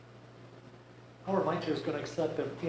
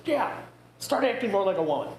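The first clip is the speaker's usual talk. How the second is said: much higher, pointed wife's retort; teasing wife; 4 semitones higher than usual. Acted. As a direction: deliver the punchline as the wife. Wife's punchline to husband.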